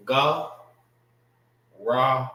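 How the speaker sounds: "Ga" then "ra", separate, each with an open ah; "Ga, ra" as isolated teaching syllables; sounding out syllables. Shown as a demonstration. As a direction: break it into GAH, pause, RAH. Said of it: "how you say throat in the Hebrew".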